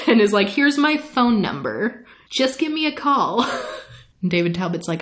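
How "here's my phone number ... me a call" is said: higher, playful acted come-on; flirty invitation. Lestat hands Talbot his number, higher playful tease. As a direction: toss out the invitation coyly.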